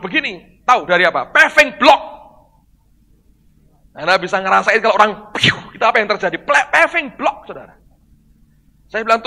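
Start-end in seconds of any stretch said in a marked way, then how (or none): 5.3-5.5 imitated falling sound.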